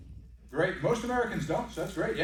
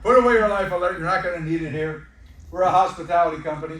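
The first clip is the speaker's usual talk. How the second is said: mock reassuring retort; 7 dB louder than usual. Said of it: "I was like".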